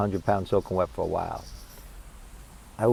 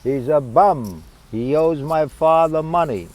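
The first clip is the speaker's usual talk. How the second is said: raised, higher voice of a complaining mother; mother in the background; 6 semitones higher, 6 dB louder, slower than usual. Retold or imitated. Mother butting in from the background about a singer, loud mock complaint. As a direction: call it out loud and indignant. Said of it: "my mother in the background".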